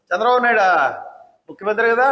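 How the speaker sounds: mocking చంద్రబాబు నాయుడా, stress on చంద్రబాబు, falling; scornful mock call of the chief minister; sarcastic address. Shown as a demonstration. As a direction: sneer the name out. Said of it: "ఇది వ్యంగ్యం".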